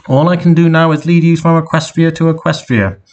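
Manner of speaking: high, level machine voice; car's GPS giving directions. Acted. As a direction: announce it like a sat-nav.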